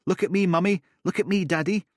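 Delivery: put-on high, rising child calling; child's voice. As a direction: call out like a little kid. Children on playground.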